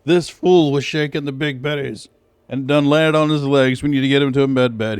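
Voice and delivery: mock medic voice. Acting out medics in game.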